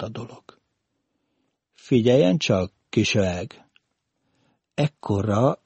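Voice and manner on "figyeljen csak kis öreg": "öeg" with the R swallowed; burred R. A narrator's reading. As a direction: speak with an R defect, losing it in "öeg". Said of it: "Most nem racsolt".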